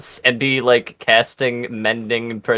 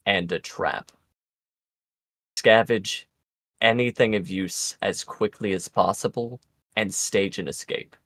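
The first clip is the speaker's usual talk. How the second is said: gravelly sly hobgoblin. Acted. NPC whispered warning.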